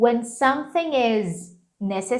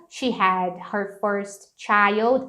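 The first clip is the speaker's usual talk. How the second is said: slow model sentence; 2 semitones lower, much slower than usual. Shown as a demonstration.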